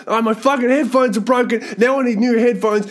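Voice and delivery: high-pitched mock rant; worked-up, hammed-up frustration; acted-out anger. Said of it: "I'll get so fucking angry".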